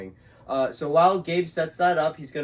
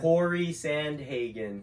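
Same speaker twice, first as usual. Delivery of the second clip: slow, exaggerated mouthing; over-articulated; slower than usual. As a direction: spell it out with big lip movements. Mouthing names for lip reading.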